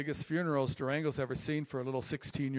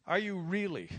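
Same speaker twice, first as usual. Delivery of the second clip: gentle probing question; 2 semitones higher than usual. Retold or imitated. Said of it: "Like that".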